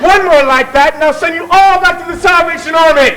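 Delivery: mock threat. Chairman threatens noisy audience.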